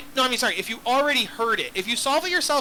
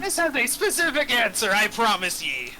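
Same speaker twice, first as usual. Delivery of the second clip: pirate voice. Acted. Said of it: "why are you talking like a pirate".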